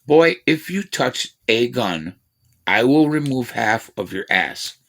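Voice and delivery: slow, deliberate stern father; slow stern dad. Retold or imitated. Dad warning his boy off the gun, slow and stern. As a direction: drag out the warning word by word. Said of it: "that was his actual thing".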